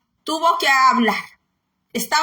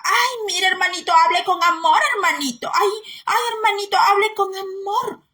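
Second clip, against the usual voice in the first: high, prissy mock plea; a hammed-up mock of meek brothers begging for gentleness; mocking sweet-talker; 4 semitones higher than usual. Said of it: "Los que hablan así".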